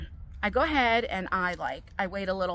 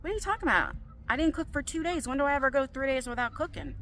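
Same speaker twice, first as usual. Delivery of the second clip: higher-pitched, incredulous comeback; mildly exasperated retort, pitched up; retold indignant protest; 5 semitones higher, faster than usual. Mother's indignant reply in retold spat.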